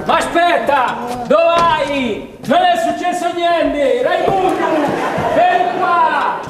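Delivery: calling after him. Acted. Calling after someone leaving. (richiamo sempre più acuto e implorante)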